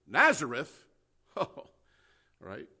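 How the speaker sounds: loud scoffing Nazareth?. Retold or imitated. Preacher voicing Nathanael, scoffing at Nazareth. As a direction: sneer the name like it's a joke.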